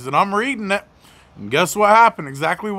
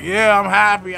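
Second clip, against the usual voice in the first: happy; 3 semitones higher than usual. Retold or imitated. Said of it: "So I'm like".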